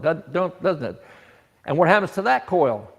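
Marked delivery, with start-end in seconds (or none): 0.0-1.0 tripping over the words; stuttering. Real, not acted. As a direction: stumble and restart doesn't. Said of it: "I'm stuttering all over myself".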